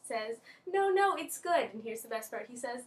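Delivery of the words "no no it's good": higher, louder quick reassurance; lightly voiced teacher waving off an apology; reassuring teacher. Teacher answers student's apology, lightly imitated reassurance.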